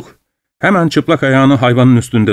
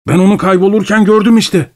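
high, restless voice of a fevered scientist; feverish Doctor Goodbody; 9 semitones higher than usual. Acted. Goodbody introduces himself to the traveller, high and feverish. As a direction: speak up high and jittery, half-mad. Madman excited claim.

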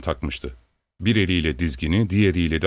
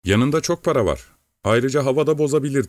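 lightly moaned plea, pitched higher; moaning, plaintive; 7 semitones higher than usual. A narrator's reading. Worried wife warns husband about the money, lightly moaning. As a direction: plead in a high, mild whine. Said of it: "inlemeye benzeyen bir sesle".

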